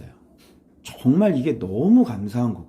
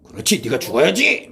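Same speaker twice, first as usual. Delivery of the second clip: lightly acted emphatic verdict; a touch of hammed-up severity; mock stern retort. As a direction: throw it back as a mock exclamation. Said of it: "어떻게 얘기해줘야 돼?".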